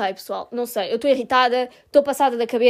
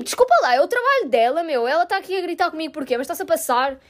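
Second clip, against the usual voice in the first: arrogant. Retold or imitated. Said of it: "a forma como ela falou, bué arrogante".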